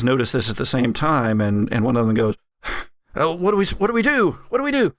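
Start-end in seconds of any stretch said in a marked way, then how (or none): 3.1-4.9 high-pitched, flustered henchman; mock panic. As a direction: squeal it in a comic fluster, pitch climbing. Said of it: "the other one panics a little bit".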